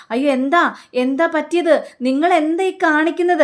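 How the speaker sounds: high, rising alarm; what on earth are you doing. Retold or imitated. Wife alarmed as uncle shuts the curtains. Family alarmed by odd behaviour.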